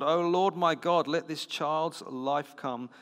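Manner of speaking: high, slow reading of a desperate prayer; crying out. A narrator's reading. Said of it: "cried to the Lord".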